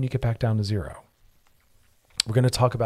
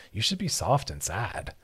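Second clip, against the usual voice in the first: ordinary talk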